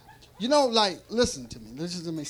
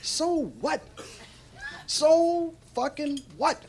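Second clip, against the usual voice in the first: defiant shrug; 4 semitones higher, 5 dB quieter, slower than usual. Retold or imitated. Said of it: "you say".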